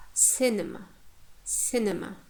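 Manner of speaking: careful "cinema", stress on "ci"; teacher's "cinema" with a strong first syllable. Shown as a demonstration. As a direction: hit the start of "cinema", weak "ne". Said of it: "the first syllable takes the stress".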